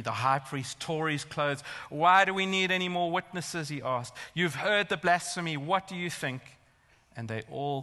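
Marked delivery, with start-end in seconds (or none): 1.9-3.7 loud, higher acted outrage; forceful rhetorical demand, voice raised; indignant high priest. Acts out high priest tearing clothes. 4.3-6.4 acted appeal to the council; mildly raised, accusing voice; indignant high priest.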